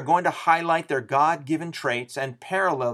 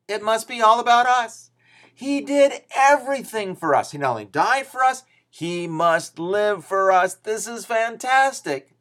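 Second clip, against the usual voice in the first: much higher and louder, slowing to relish each word; gleeful cat; 9 semitones higher, 6 dB louder than usual. Acted. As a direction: crow it like a self-pleased cat who thinks it's all about him. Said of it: "says a cat".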